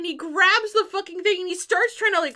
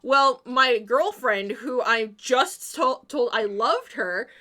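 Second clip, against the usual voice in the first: slow, drawn-out mock-tender speech that bursts louder with a laugh at the end; mock heartfelt speech; 3 semitones lower, 6 dB louder than usual. Boyfriend mock-confessing the gift is ugly, laughing. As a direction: play the sweet boyfriend, then crack up on the punchline. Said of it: "he does that whole thing of".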